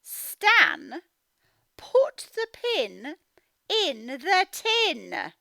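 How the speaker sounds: slow, firm mum instruction; lightly voiced mum. Mum telling Stan slowly, in a lightly firm voice. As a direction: give a slow, firm order.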